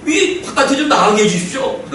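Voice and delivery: mock-whiny plea, half laughing; complaining prayer. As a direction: act out a prisoner begging to be let out. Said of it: "그런 기도를 했을 거예요".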